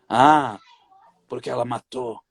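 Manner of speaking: low, slow, cruel demonic voice; possessed demon voice. Retold or imitated. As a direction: growl it out like a possessed spirit. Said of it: "sabe aquela voz do demônio". (voz grave de demônio possuído)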